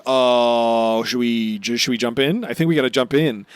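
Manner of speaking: loud, eager mock hesitation; excited hesitation. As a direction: act out the nervous heroes. Usopp and Frankie hesitating, acted quote.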